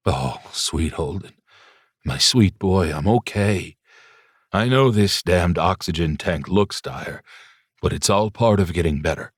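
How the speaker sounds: put-on gentle old father. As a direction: speak as a sick but tender dad comforting his son. Pops comforts his crying son.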